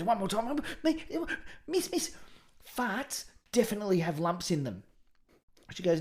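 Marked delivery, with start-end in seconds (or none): 0.0-4.8 put-on high, pleading kid voice; cheeky schoolboy. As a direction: beg for one more turn, high and eager. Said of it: "And Johnny goes".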